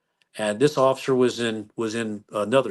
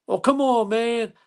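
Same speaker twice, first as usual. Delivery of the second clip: whiny protest; 11 semitones higher, 3 dB louder, slower than usual. Retold or imitated. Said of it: "And he goes".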